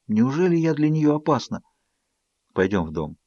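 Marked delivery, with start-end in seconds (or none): 2.5-3.2 low, hushed whisper. A narrator's reading. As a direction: say it under your breath, low. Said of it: "прошептал Эдвард".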